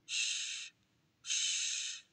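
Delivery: whispered shh; soothing hush. Acted. Father soothes his sobbing son in a whisper. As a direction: hush a crying child. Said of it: "he said, patting his head".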